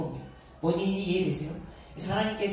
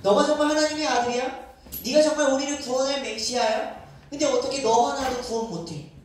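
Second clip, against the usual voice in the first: mocking taunt; 4 semitones higher than usual. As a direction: taunt him, daring him to come down. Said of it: "예수님이 조롱하기 시작해요".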